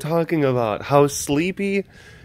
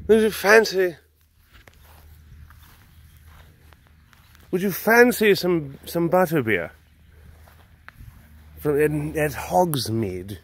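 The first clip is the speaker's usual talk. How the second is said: put-on British accent. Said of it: "say it in a British accent".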